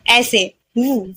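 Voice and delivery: slow buzzing वू with lip on teeth; vibrating v sound. Shown as a demonstration. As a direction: buzz the वू slowly. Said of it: "वी में vibrate होगा थोड़ा सा हमारे वू".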